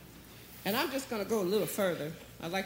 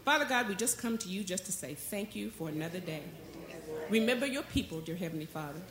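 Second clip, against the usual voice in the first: measured, reverent prayer voice; earnest prayer; 2 semitones lower than usual. Real, not acted. Pastor praying to Heavenly Father before the message, earnest prayer. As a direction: pray aloud in short, heartfelt phrases.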